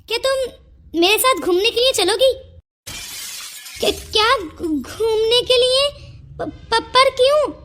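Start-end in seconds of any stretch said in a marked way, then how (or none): 3.8-7.5 stammering, caught off guard, higher and slower; flustered surprise. Acted. Shy village girl asked out by Sameer, flustered stammering surprise. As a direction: stumble over the words in shy disbelief. Sameer suddenly invites her out.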